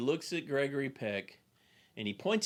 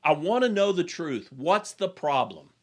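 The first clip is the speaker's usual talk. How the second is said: firm, louder demand for the truth; retelling an exasperated general's demand; frustrated demand; 3 semitones higher, 4 dB louder than usual. Retold or imitated. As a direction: press him hard, a touch angry. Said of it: "gets a little frustrated with him and kinda slams".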